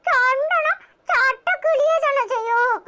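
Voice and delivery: slow, crying through the words; tearful. Acted. Grandson tells his brother, slowly crying. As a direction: weep it out slowly. Upset family talk.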